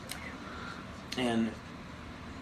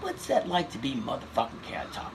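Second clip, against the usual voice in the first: Chris Rock impression; 3 semitones higher than usual. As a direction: do Chris Rock needling a friend. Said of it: "He's like".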